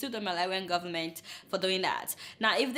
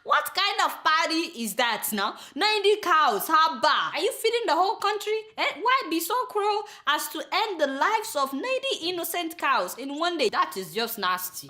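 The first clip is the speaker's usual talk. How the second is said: outraged; 5 semitones higher, 4 dB louder than usual. Retold or imitated. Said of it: "I said".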